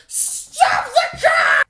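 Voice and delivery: high, loud, drawn-out scream; desperate yell. Retold or imitated. Yelling at mom from the back seat, desperate scream. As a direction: scream it slowly, full panic. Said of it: "I'm yelling".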